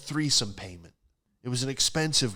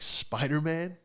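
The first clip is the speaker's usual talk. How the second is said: higher, rising guess; raised-pitch questioning reply; puzzled question; 6 semitones higher, slower than usual. Retold or imitated. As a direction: offer it as a tentative question. Answering her, puzzled question.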